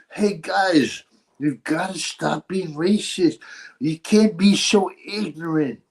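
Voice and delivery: lightly put-on Dutch accent, lecturing; Dutch accent impression.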